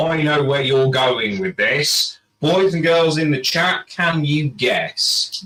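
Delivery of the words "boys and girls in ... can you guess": put-on overbright kids party host. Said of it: "addressing chat like children".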